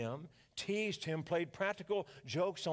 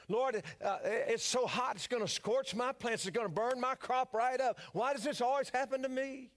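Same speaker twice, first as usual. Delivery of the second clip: higher, whiny griping farmer; a whiny Cajun farmer griping to the Lord, pitched higher; complaining whine; 5 semitones higher than usual. Retold or imitated. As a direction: moan to the Lord about the rain. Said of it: "Boudreaux, on the other hand, negative".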